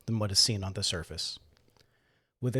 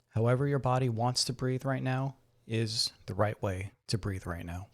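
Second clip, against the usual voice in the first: guided meditation. Acted. Guide helps listeners settle into the chair and breathe, calm meditation voice. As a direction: gently talk them into relaxing.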